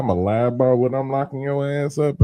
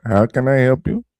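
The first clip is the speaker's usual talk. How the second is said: put-on Indian accent; 3 dB louder than usual. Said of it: "You gonna typically get".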